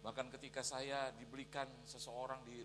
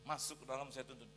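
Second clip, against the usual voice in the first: ordinary delivery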